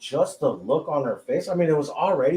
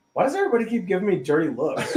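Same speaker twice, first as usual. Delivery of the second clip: laughing quote; 5 semitones higher, faster than usual. Retold or imitated. Retelling friend's confused question, laughing.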